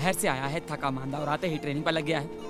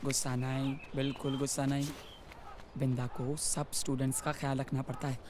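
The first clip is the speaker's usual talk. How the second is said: calming; 6 dB quieter than usual. Acted. Calming down angry girl.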